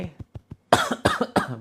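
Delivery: pushed cough. Shown as a demonstration. Healer shows patients how to push it out, pushed cough. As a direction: drive the cough out with force. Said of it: "batuk-batukan, dorong".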